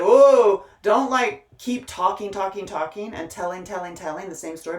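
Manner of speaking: loud startled whoa, then fading nag; mock-scold her younger self. Speaker editing her old videos, loud then fading nag. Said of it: "edit myself to be like".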